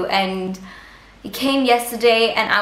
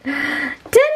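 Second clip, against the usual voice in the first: excited reveal; 4 semitones higher than usual. Real, not acted.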